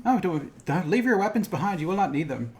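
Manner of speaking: Yoda line. Retold or imitated. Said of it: "think about, like".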